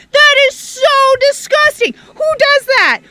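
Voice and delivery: excited disgust. Real, not acted. Reacting to own dirt.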